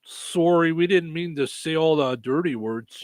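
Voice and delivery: put-on light, polite Canadian accent; playful put-on Canadian accent; mock Canadian. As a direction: apologize like a courteous Canadian. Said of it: "'cause it's Canadian".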